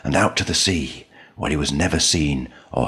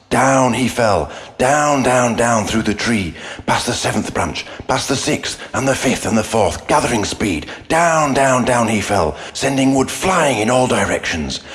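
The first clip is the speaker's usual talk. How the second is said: dramatic build; 6 semitones higher than usual. A narrator's reading. Dramatic fall narration.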